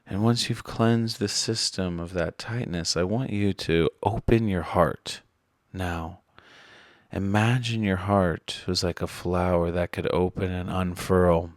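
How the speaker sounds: measured meditation voice with long pauses; guided meditation. Acted. Meditation guide helping listeners release resistance, calm and measured. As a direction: guide them inward calmly, leaving space between phrases.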